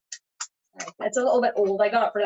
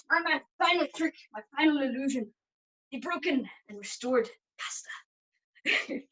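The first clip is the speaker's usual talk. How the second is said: showman announcement; 2 semitones higher, slower than usual. Acted. Magician announces final trick.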